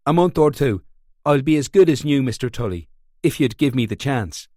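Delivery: a hint of desperate pleading; pleading young man. Seamus pleads with Tully.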